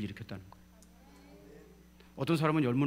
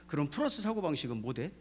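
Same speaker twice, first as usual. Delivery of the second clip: Jeolla dialect. Retold or imitated. Preacher recalls asking a Japanese speaker, in Jeolla dialect. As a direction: question in Jeolla regional speech. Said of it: "전라도 사투리로 물어봤죠".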